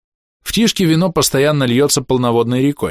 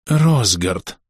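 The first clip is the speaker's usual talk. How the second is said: проникновенно. A narrator's reading. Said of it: "проникновенно завёл старую пластинку".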